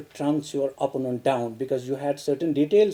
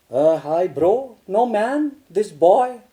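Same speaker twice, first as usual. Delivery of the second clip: casual slang; 4 dB louder, slower than usual. Shown as a demonstration. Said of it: "It's a canteen language".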